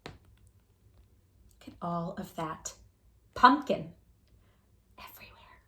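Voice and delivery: hushed wonder at the mess; awed hush. A narrator's reading. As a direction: marvel at it under your breath. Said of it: "awed aside to listener".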